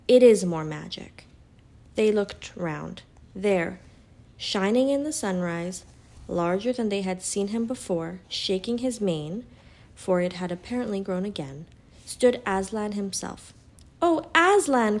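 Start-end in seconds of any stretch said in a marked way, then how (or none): 0.1-1.3 loud, weighty lion's pronouncement; great voice. A narrator's reading. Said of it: "said a great voice". 14.0-15.0 high, loud exclamation of wonder; astonished cry. A narrator's reading. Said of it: "cried both the children".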